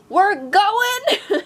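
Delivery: high, loud, eager hamster cry; excited hamster. Retold or imitated. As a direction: shout it like a hyped-up little hamster. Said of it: "the hamster immediately is like".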